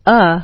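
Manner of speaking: neutral, relaxed "uh"; schwa sound. Shown as a demonstration. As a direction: say "uh" with mouth and throat loose. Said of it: "Here are four major sounds".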